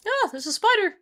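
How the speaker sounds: startled high yelp; sudden high surprised shout; screaming at a spider. Real, not acted.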